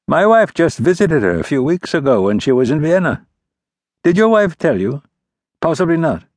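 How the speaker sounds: put-on sly, knowing old statesman; prince, airily fishing for news. A narrator's reading. Narrator voices the prince.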